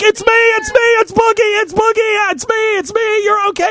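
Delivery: high, frantic calming; frantic reassuring. Retold or imitated. Man retelling how he frantically calmed his screaming girlfriend. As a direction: talk her down fast and high.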